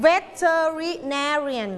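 slow, syllable-by-syllable "veterinarian", heaviest on "na"; "veterinarian" with the fourth syllable "na" stressed. Shown as a demonstration. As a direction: sound out "veterinarian" and hit "na". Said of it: "ควานพูดเสียงดังกว่าเพื่อน".

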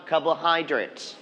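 slow "carbohydrates", weight on "hy"; stress on third syllable. Shown as a demonstration. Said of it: "stress on the third syllables". (พูด "carbohydrates" ช้า เน้นพยางค์ "hy")

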